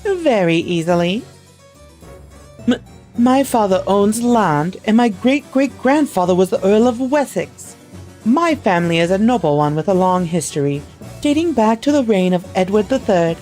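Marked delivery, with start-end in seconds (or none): 2.7-13.4 lightly voiced haughty girl in a posh English accent; cool, cutting posh English accent, a touch higher; mocking her governess in a posh English accent. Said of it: "I don't need to do the accent anymore".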